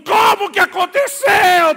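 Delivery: a high, loud, slow shout of outrage; exasperated yell at the world; furious shout. Retold or imitated. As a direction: bellow the question at the whole world. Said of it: "Eu quero gritar pra Deus e o mundo".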